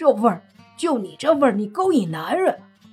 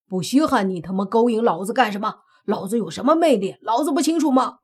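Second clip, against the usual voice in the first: loud furious cursing; angry cursing; 3 semitones higher, 5 dB louder, faster than usual. Acted. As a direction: bellow the accusation. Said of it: "泥巴怒骂".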